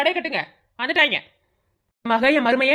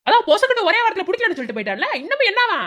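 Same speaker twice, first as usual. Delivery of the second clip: higher, sharp and mocking, peaking on the question; taunting scold; 5 semitones higher than usual. Mother-in-law scolding the mother, taunting. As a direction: throw it in her face.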